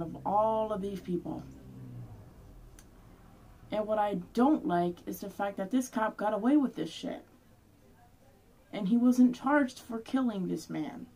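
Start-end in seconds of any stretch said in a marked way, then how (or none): 3.7-11.1 angry. Real, not acted. Vlogger venting at the cop who went free, angry. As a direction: let the outrage build and spill over. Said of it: "angry about this whole thing".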